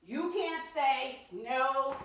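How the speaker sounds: high, slow sassy dismissal. Real, not acted. Talking to a rejected skirt, sassy. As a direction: tell it off with attitude.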